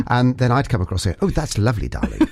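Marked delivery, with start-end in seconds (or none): 1.3-2.3 playing up a posh English accent for fun. Among Northern Irish speakers, a mock posh English accent. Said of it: "I sounded like the poshest person in the world".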